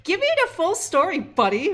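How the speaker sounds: a hint of a Canadian accent. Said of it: "my Canadian accent".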